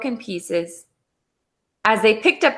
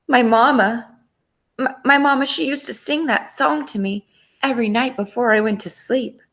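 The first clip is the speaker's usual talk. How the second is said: wistful; 4 semitones higher, faster than usual. Acted. Wolf moved by lullaby.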